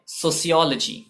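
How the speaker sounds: "सोशियोलॉजी" as so-see-O-luh-jee; careful pronunciation. Shown as a demonstration. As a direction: say "सोशियोलॉजी" with an s, never sh. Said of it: "और ये word है".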